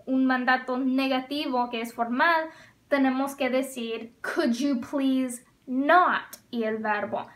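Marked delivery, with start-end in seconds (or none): 4.2-6.4 each word drawn out, landing on not; slow model phrase. Shown as a demonstration. Teacher modeling a formal command for students, slow and clear. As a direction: stretch it out like a teacher. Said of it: "teacher modeling formal command".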